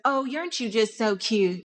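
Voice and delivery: sugary passive-aggressive mock compliment. People talking down to her, mock passive-aggressive. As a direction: imitate a condescending compliment. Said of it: "I get the passive aggressive".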